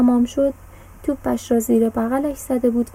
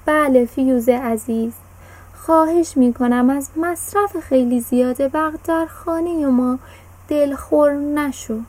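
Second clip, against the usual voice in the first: put-on slightly raised, earnest boy's voice; boy calling out his promise; loud. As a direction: promise it aloud to the fuse. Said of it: "با صدای بلند گفت".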